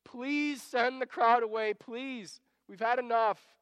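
fed-up plea with a drawn-out please; exasperated. Acted. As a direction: beg as if you have had enough. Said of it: "I can hear them being exasperated with Jesus".

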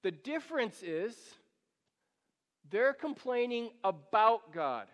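ordinary talk, nothing marked

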